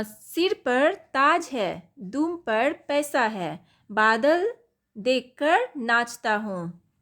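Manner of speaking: slow, drawn-out riddle voice; riddle recital. Shown as a demonstration. Teacher reading a peacock riddle to pupils, slow and teasing. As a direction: pose the riddle slowly, teasing.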